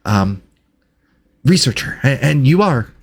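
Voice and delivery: halting delivery with excited little starts; eager, hesitant researcher. Acted. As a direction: play a flustered scholar greeting strangers. Game master voices Reginald.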